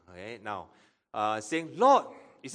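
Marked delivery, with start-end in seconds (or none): 1.8-2.1 high, loud cry of appeal; acted cry. Preacher voicing Mary crying to Jesus, high loud cry. Acts Mary's plea to Jesus.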